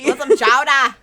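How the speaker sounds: bad Boston accent. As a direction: bellow it like a Boston caricature. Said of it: "We have the worst Boston accents".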